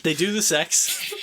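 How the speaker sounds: laughing through the punchline. Real, not acted. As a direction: blurt it out laughing.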